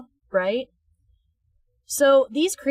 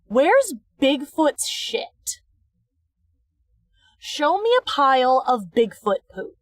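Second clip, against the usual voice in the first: ordinary delivery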